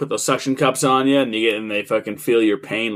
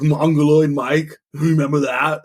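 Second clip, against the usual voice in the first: Arnold impression; 2 semitones higher than usual. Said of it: "it's Arnold's voice and shit".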